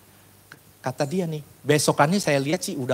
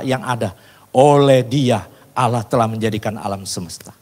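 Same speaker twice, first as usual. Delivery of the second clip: loud, declaimed Bible verse; scripture reading; 3 semitones higher, 5 dB louder than usual. Acted. Preacher reading scripture to the congregation, declaimed. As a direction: proclaim the verse forcefully and steadily.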